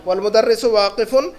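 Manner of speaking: والمدرس واقفن read slowly, with a rise at the end; the teacher repeats the Arabic for the class, slowly and deliberately; slow Arabic model reading. Shown as a demonstration. Teacher repeating Arabic for students, slow model reading. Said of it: "تو الولد جالسن".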